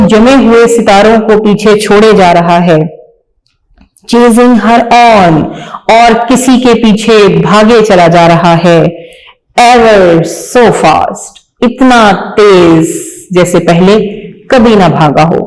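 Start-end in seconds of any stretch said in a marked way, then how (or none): 4.1-5.4 reading a poem aloud slowly, word by word. Shown as a demonstration. Teacher reading a poem to young pupils, slow and clear. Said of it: "आइए पढ़ते हैं". 9.6-11.4 reading a poem aloud slowly, word by word. Shown as a demonstration. Teacher reading a poem to young pupils, slow and clear. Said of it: "आइए पढ़ते हैं".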